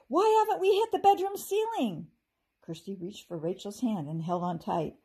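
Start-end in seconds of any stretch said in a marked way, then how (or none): 0.1-2.1 high, loud yell up into the storm; shouted over the swirling snow. A narrator's reading. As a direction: call out over the wind. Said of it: "Rachel yelled to Kirsty".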